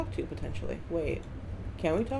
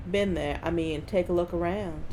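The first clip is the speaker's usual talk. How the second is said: put-on Southern accent. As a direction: lay on a rough Southern US accent. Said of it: "someone from the South who's drunk and Cartman".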